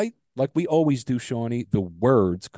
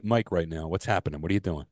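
glitching audio; 7 semitones lower, 6 dB quieter than usual. Real, not acted. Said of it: "You're, you're breaking up a little".

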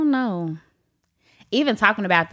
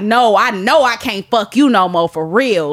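firm resolve; 4 dB louder than usual. Acted. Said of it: "one is like".

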